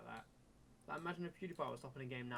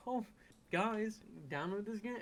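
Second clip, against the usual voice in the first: higher, louder, slow syrupy ad read; mock sponsor voice; 9 semitones higher, 7 dB louder, slower than usual. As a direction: ham up a sellout YouTuber. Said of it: "sit there and be like".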